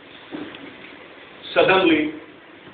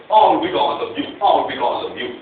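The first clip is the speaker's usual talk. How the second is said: retold shout; 2 semitones higher, 6 dB louder than usual. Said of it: "Shout back at my daughter".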